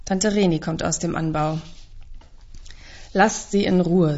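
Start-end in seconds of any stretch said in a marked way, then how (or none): 3.1-4.2 rough voice. Acted. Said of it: "mit dieser rauen Stimme".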